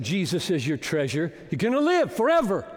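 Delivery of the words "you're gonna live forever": rising promise. Real, not acted. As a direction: drive it home with joy. Preacher promising eternal life.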